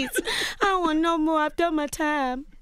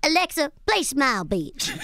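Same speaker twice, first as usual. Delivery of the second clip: laughing through a Tiny impression; lightly voiced Tiny, giggling; a hint of Tiny, laughing. Shown as a demonstration. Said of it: "in Tiny voice".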